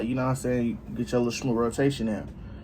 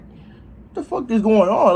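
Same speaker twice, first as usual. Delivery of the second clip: loud slow confusion; 7 semitones higher, 6 dB louder, slower than usual. Retold or imitated. Waking up confused.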